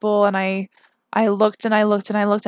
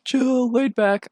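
mock laid-back; 3 semitones higher, slower than usual. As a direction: stretch it out as a joke on yourself. Mocks own claim to be chill.

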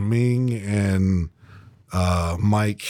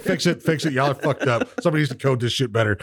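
laughing complaint; 4 semitones higher than usual. Retold or imitated. Actor complaining about app.

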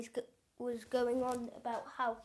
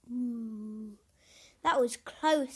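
relieved; 2 semitones lower, slower than usual. Acted. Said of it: "said Hamish, relieved".

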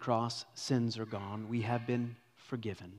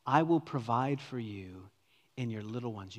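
tender. Acted. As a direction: soften it like comforting family. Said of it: "You can hear the tenderness".

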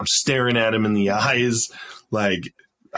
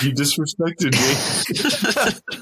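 slow, pointed, higher accusation; slow mock-indignant accusation, higher pitched; 6 semitones higher, much slower than usual. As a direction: drag it out like an offended soldier. Retelling confrontation with Sergeant Major.

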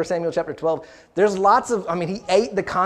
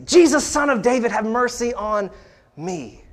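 raised, higher imitated plea; retold crying out; 5 semitones higher than usual. Preacher recalling blind Bartimaeus's plea, imitated crying out. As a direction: echo the cry, less than a full shout. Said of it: "is crying out".

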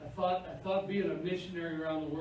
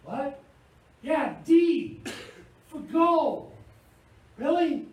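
helpful bystander; 8 semitones higher, 8 dB louder, slower than usual. Retold or imitated. Someone coaching the clueless driver.

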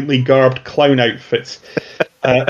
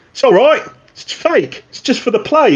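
higher mutant actor voice; 11 semitones higher than usual. Acted. Mutant actor reassuring the prisoners, higher voice. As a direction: pitch it up, chatty and reassuring.

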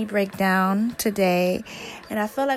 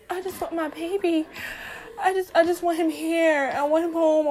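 tearful pleading; 5 semitones higher than usual. Real, not acted. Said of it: "I feel like I'm about to cry now".

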